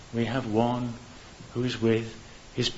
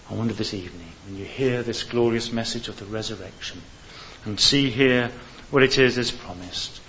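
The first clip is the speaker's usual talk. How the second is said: ordinary delivery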